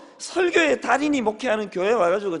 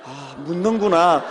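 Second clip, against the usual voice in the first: mock earnest; 5 semitones lower, 3 dB louder, slower than usual. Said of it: "너무 진지하게".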